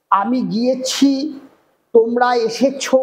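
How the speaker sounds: slow গিয়েছি and এসেছো, final syllables drawn out; verb endings stressed. Shown as a demonstration. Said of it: "ক্রিয়ার শেষ উচ্চারণে".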